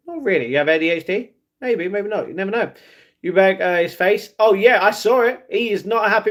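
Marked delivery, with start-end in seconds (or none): none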